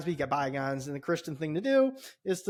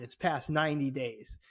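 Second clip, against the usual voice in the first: "It's past ninety days?" repeated slowly in disbelief; slow mocking repeat of "It's past ninety days?"; incredulous echo; 2 semitones lower, 3 dB quieter than usual. Echoing the clerk in disbelief.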